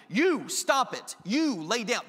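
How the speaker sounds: slow, scolding "You stop it"; annoyed parent scolding. Retold or imitated. Parent scolding two fighting kids, slow and firm. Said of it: "my two kids are fighting".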